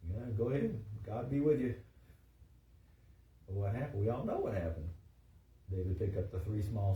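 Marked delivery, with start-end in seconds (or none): 0.1-1.7 lightly dismissive send-off; sarcastic blessing. Acted. Saul thinks David has no chance, mildly sarcastic. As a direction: humor him with a mild mock blessing. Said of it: "He didn't think David had a chance".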